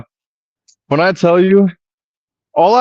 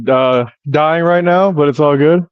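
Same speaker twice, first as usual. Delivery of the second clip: out of breath. Real, not acted. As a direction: talk while still out of breath. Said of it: "I'm out of breath right now".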